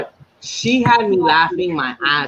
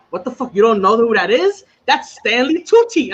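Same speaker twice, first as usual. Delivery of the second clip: higher-pitched mock disbelief; imitating serious indignation; 4 semitones higher than usual. Sober friend corrects a high Didi, seriously indignant. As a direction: act out an instant, incredulous comeback. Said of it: "with such a serious".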